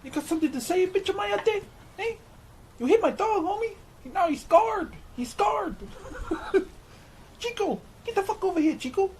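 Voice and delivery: very high, exaggerated Cholo accent; tough-guy Cholo accent cranked way up in pitch. Viewer requested Cholo accent, barber hams it up very high. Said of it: "Can you do a stereotypical Cholo accent?".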